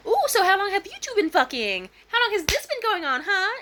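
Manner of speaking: high, loud jealous confrontation; angry accusing. Retold or imitated. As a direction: bark the accusation at her. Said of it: "this bitch came up to the bed like".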